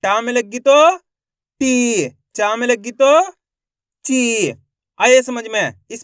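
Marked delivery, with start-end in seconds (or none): 1.6-2.1 "टी" with the ee held long; "टी" as one sustained syllable; drawn-out long vowel. Shown as a demonstration. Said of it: "खींच खींच के उच्चारण करना है". 4.0-4.5 "ची" with the ee held long; "ची" as one sustained syllable; drawn-out long vowel. Shown as a demonstration. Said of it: "खींच खींच के उच्चारण करना है".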